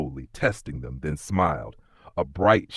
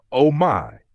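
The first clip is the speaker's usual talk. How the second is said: higher, louder startled cry; frightened cry; 7 semitones higher, 7 dB louder than usual. A narrator's reading. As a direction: gasp it out in alarm. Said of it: "cried Ellie".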